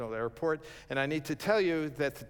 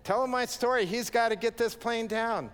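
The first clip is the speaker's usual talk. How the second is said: much higher and louder, pleading orders; urgent demand; 10 semitones higher, 5 dB louder than usual. Retold or imitated. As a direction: push the baggage guy to make the pilot land. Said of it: "I'm going like".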